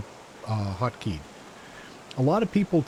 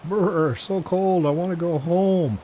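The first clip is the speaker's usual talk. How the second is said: teeth chattering; 6 semitones higher, 4 dB louder than usual. Acted. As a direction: chatter through the cold. Voicing a freezing game character.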